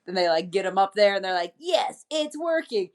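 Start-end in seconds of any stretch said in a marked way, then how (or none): 1.6-2.9 drawn-out mock-excited cheer; retold triumph. Podcaster imitating movie characters pleased with their trap, mock triumph.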